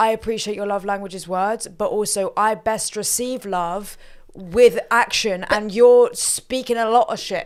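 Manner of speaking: usual speaking voice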